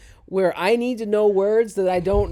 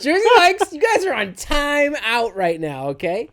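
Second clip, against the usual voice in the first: loud, higher-pitched mock telling-off; indignant pretend reprimand; mock scolding; 7 semitones higher, 8 dB louder than usual. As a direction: hand down a comic punishment loudly. Mock scolds the sandwich chain.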